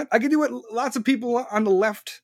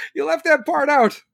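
higher, louder, pointed repeat; sarcastic repeat; 6 semitones higher, 3 dB louder than usual. Real, not acted. Repeating the catch to viewers, higher and louder. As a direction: hammer home the catch with a sneer.

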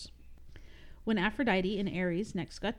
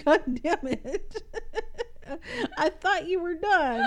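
laughing exasperation; cracking up while scolding; 10 semitones higher, 5 dB louder than usual. Real, not acted. Co-host keeps laughing mid-reading.

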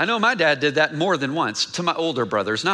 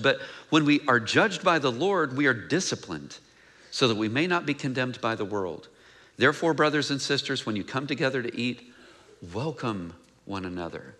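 scripture reading; 2 semitones lower than usual. Acted. Reads the scripture passage aloud.

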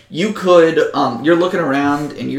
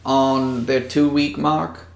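slow, deliberate Southern mayor; Southern accent; slower than usual. Acted. Mayor estimates days left before they come, slow Southern accent. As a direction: draw it out in a Southern voice. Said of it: "gotta go back to being Southern".

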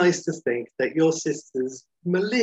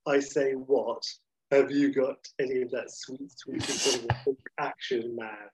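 Bertie Wooster. Retold or imitated. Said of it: "in a sort of a Bertie Wooster sort of thing".

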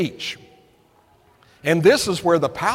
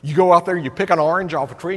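ordinary talk, nothing marked

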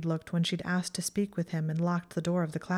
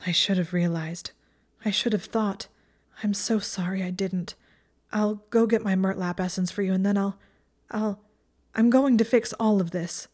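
frantic resolve; 3 semitones higher, 4 dB louder than usual. Acted. Hermione guilty then resolute.

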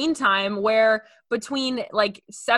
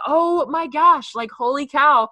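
higher, drawn-out "oh my gosh" disbelief; mock shock; 4 semitones higher, 5 dB louder, slower than usual. Podcaster reacting to her weekly screen time report, mock shock. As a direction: exclaim it slowly in exaggerated amazement.

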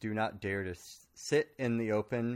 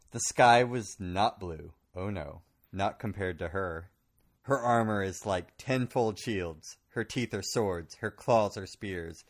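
dramatic story narration. Acted. Dramatic reading of chapter.

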